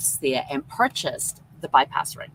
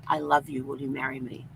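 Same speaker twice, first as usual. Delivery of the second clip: soft, slightly lowered mock whisper; retold whisper; 4 semitones lower, 5 dB quieter than usual. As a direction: quote a hushed proposal, softly. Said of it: "he suddenly whispers in my ear".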